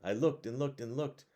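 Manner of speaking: put-on bright, lively read-aloud voice for kids; reading a picture book to children at bedtime; storybook narration.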